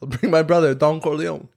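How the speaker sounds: mock Italian mobster accent; a hint of mafia-movie Italian. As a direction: play it lightly Italian. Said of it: "you guys were doing Italian accents".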